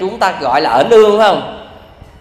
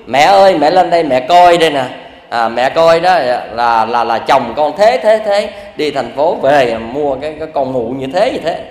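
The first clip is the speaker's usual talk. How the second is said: wailing complaint; 3 semitones lower than usual. Retold or imitated. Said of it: "la lối ôm sòm và kêu".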